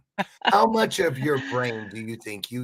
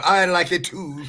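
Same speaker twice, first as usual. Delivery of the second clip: lightly imitated Irish lilt, higher and louder; playful attempt at an Irish accent; mock Irish accent; 5 semitones higher, 5 dB louder than usual. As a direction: put on a quick Irish accent. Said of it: "and the Irish people are".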